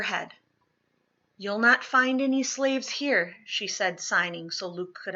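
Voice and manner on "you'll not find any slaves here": defiant. Acted. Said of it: "Squaring her shoulders".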